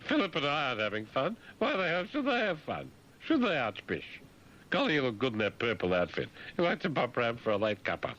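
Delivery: high, prim royal voice; mock Queen. The Queen chiding the Archbishop, in a high prim voice. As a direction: play the Queen scolding, pitched high.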